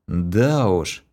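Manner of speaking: usual speaking voice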